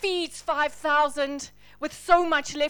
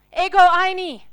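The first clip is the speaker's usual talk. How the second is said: ringing louder declaration of Ego eimi; triumphant proclamation; 5 semitones higher, 12 dB louder than usual. Acted. Preacher to congregation, booming "Ego eimi" as God's name. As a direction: cry out "Ego eimi" like a revelation.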